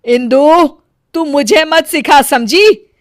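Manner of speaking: scolding. Acted. Mother-in-law scolding daughter-in-law.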